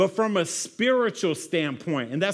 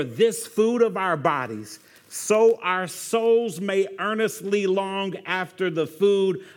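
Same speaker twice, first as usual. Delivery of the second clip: prayer reading; 2 semitones lower than usual. Acted. Pastor reading a table prayer aloud, slow and solemn. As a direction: pray it slowly and reverently.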